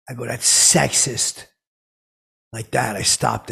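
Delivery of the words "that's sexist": "That's sexist." dragged out slow and loud; slow scolding. Retold or imitated. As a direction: spell out the disapproval slowly. Scolding Elon's joke.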